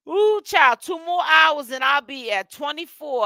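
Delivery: excited outburst. Real, not acted. Excited outburst about fast.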